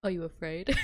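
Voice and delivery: loud mock-menacing hero; dramatic reading. Streamer as Twilight hero challenging her, loud and dramatic. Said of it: "that is a dramatic reading".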